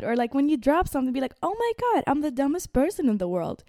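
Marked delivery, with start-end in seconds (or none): 1.4-3.6 mock dramatic self-insult. Imitating harsh self-talk.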